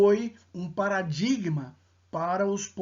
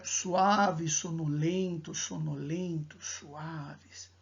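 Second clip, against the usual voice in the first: fading out; 3 semitones lower, slower than usual. Shown as a demonstration. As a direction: let the repetitions fade away. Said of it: "As repetições, né?".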